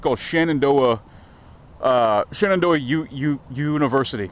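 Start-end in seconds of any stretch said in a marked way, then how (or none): 1.8-4.3 stuttering on the word; real stumble, stuttered start. Real, not acted. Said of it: "God damn, I stutter sometimes".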